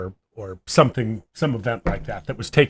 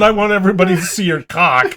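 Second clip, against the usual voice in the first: mock child shout; 6 semitones higher, 5 dB louder than usual. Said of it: "So it wasn't".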